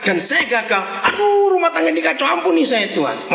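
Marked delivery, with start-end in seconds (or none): 1.1-3.3 high-pitched pleading cry, falling at the end; distressed mock wail. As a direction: plead for forgiveness in a retold prayer. Retold prayer when he fails.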